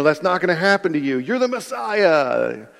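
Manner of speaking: imitated pep talk, insisting; mock protest. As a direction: talk a friend out of gloom. Acts out Peter reassuring Jesus.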